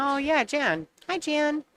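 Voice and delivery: high, twangy backwoods drawl. Shown as a demonstration. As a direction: stretch it out like a backwoods local. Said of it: "Backwoods drawl".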